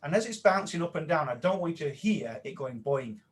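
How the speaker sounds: playful guided exercise, quick start. Shown as a demonstration. Trainer repeating the exercise, playful and guiding. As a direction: lead them through it, bouncy on boing. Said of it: "I'll say that again".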